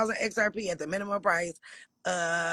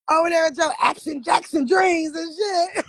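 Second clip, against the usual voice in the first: real laughter, high and loud, through the words; cracking up while teasing; laughing; 10 semitones higher, 6 dB louder than usual. Real, not acted. Laughing at a viewer's dream.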